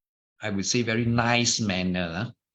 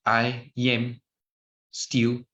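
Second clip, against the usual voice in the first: slow demo; slower than usual. Shown as a demonstration. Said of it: "Say these four words four times".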